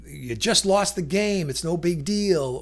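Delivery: lightly acted minimizing; belittling. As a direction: brush the problem off as trivial. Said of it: "small or inconsequential".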